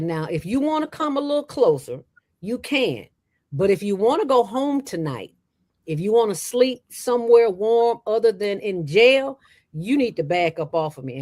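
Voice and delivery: high-pitched, measured warning; retold threat. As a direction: warn him to back off, as retold.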